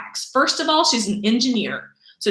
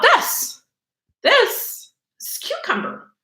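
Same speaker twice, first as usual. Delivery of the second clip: funny voice; 12 semitones higher, slower than usual. Acted. Teacher shows plant in odd voice.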